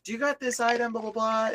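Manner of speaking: high, offhand voice of a passing customer; casual stranger. Retold or imitated. Man behind him asking store staff for item, high. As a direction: toss off a quick question in a lighter pitch. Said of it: "and he's like".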